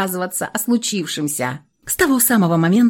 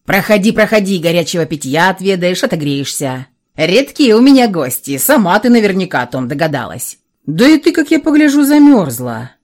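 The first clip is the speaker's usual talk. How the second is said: hospitable dragon, lightly voiced; many-headed hydra; 4 dB louder than usual. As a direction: welcome her in, a hint of a friendly dragon. Dragon welcomes guest.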